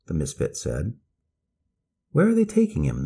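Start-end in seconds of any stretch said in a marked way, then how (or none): 2.1-3.0 high, loud frightened cry; children's mother screaming in fear as her husband is taken; screamed question. A narrator's reading. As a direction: scream it in panic. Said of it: "the children's mother screamed".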